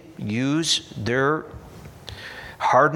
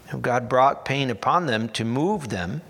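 ordinary talk

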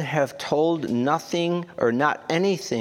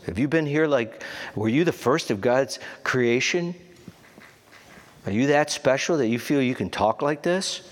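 sarcastic; 3 semitones higher than usual. Acted. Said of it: "look at how sarcastic he is".

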